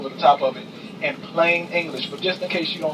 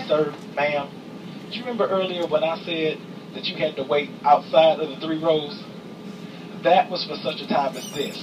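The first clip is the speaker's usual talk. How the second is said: with attitude. Retold or imitated. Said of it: "swear I have an attitude".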